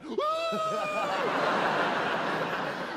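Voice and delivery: high shrieking manic laugh; crazed caffeine laugh; wild cackle. Acted. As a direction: cackle like you're wired on coffee. Manic coffee-fuelled cackle.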